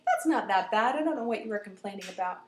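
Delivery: put-on brisk, unimpressed girl; dismissive friend. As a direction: brush off the complaint, ending fast.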